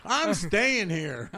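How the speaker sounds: slow, stubborn demon voice refusing to leave. Pretend. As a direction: drag it out like a demon that won't budge. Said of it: "Just like".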